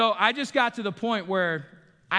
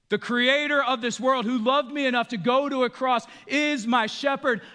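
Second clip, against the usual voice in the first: preaching fervor; 7 semitones higher, 6 dB louder than usual. Acted. Rising preached line.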